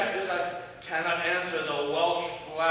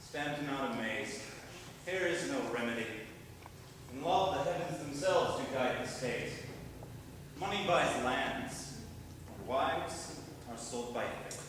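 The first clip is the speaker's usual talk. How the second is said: softer and lower, measured; low sage moral; 4 semitones lower, 8 dB quieter than usual. Acted. Falstaff calming the stunned parents, low quiet moral.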